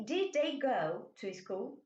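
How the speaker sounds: Did stressed, rising; slow rising question; question tune. Shown as a demonstration. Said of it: "é a forma interrogativa". (pergunta lenta com Did em destaque)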